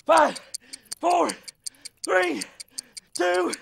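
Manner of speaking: high, energetic count to the finish; finishing countdown. Acted. Coach counts down the last seconds of exercise, high calling. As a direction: call out each number like a coach.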